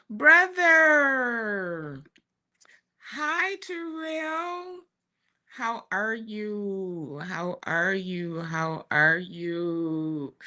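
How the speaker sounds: high, sing-song hello to her brother; high greeting. Retold or imitated. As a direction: raise the voice for a cheery hi.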